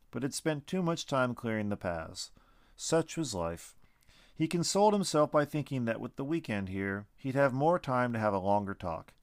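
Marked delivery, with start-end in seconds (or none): none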